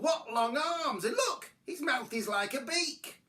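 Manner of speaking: high complaining mother; mildly appalled complaint; grumbled. A narrator's reading. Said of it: "she grumbled".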